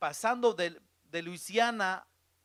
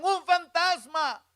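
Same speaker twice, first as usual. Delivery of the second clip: high, loud, stretched cry; acted scream at a ghost; terrified shout; 9 semitones higher, 6 dB louder, slower than usual. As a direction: shout it like the panicked disciples. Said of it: "Entonces gritaron".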